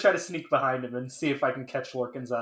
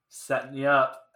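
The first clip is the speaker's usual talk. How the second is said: normal talking voice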